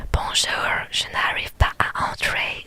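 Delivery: put-on slow whispered French with an American accent; hammed-up American accent in French. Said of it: "J'adore l'accent". (accent américain exagéré)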